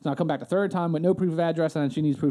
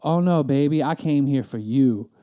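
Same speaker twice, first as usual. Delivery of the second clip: mock sweet talk; 3 semitones lower than usual. Sweet-talking the angry clerk.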